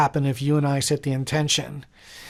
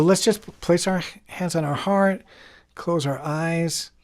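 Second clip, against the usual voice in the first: guided meditation. Real, not acted. Healer guiding listeners to close their eyes before the music, calm meditation voice. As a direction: ease them down phrase by phrase, with pauses.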